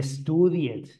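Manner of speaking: slow "studied" with the ending sounded as its own syllable; learner's over-pronounced "studied"; mispronounced -ed. Shown as a demonstration. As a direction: stretch "studied" into separate beats, ending "-ed". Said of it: "nunca se va a decir".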